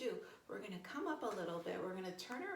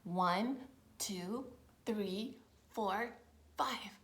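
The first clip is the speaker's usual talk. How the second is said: count-off; 6 dB louder, much slower than usual. Shown as a demonstration. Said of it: "hold this pose for five".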